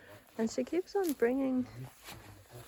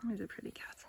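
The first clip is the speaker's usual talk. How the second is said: whisper; 9 dB quieter, faster than usual. Real, not acted. Whispering near puppies.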